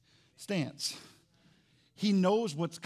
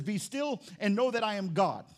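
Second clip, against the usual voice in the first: scripture reading; 2 semitones higher than usual. Shown as a demonstration. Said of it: "verse ten says".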